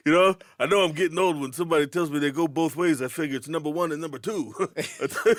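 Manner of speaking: lightly voiced Rodney Dangerfield one-liner; a hint of the old comic's punchline delivery. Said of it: "I'm not Rodney Dangerfield".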